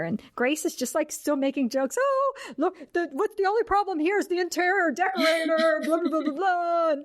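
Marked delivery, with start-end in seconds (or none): 2.0-6.9 much higher, airy mocking voice with a laugh; mock flippant socialite. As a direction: play her as a dismissive joker brushing off ghosts. Grace still making jokes, mocked.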